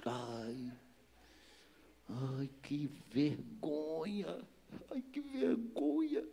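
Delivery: drawn-out, soft cringing moan; stretched-out groan of shame; mortified wail. Acted. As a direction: moan it slowly in embarrassment. Acting out his own shame.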